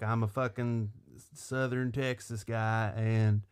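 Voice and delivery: lightly imitated smooth Southern charmer; Matthew McConaughey charming. Co-host mocks the movie star's autopilot act, lightly drawled charm. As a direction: coast on easy Texan charm, a little low. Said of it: "Matthew McConaughey doing his, like, autopilot charming thing".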